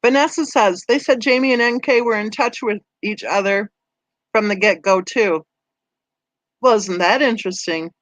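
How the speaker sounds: talking with a mouth full of banana; chewing while reading comments. Real, not acted. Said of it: "I'm gonna talk with my mouth full".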